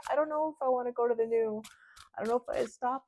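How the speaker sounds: high, fast, put-on fretful voice; imitating a reluctant person. Tarot reader voicing a hesitant querent, high and fretful. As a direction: squeak it out like someone who doesn't want to move on. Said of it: "where they're like".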